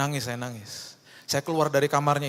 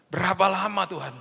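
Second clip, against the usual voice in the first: higher, stressing berapa; pleading cry to God; 6 semitones higher than usual. Shown as a demonstration. Pastor crying out to God, raising the pitch on berapa. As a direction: cry out berapa lama in anguish.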